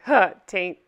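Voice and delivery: lightly imitated sketch character; Chad. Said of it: "all his character would say".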